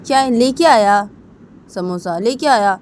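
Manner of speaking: proudly announcing the samosa; excited son. Acted. Son voiced in family story. (उत्साहित बेटे की आवाज़)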